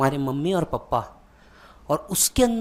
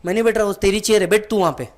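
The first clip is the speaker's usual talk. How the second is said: much higher and louder, then fast; dad frantically waving off the chair; flustered refusal; 5 semitones higher, 7 dB louder, much faster than usual. Retold or imitated. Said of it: "पापा बोलते". (घबराकर ज़ोर से मना करना)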